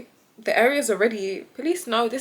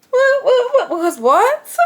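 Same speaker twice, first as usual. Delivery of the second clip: indignant what; 13 semitones higher, 8 dB louder, slower than usual. Retold or imitated. Indignant outburst at police.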